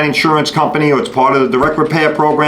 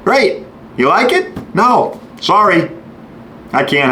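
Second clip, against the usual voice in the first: higher, sarcastic shop guy brushing off customer; facetious shop guy; 5 semitones higher, slower than usual. Retold or imitated. Shop worker teasing the unhappy customer, mock cheerful. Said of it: "I'm being facetious here".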